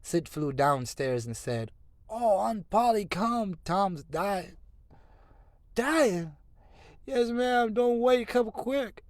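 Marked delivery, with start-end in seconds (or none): 2.1-9.0 very high, loud, urgent; panicked urging. Acted. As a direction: rush the aunt upstairs, high and urgent. Sid fetching aunt in panic.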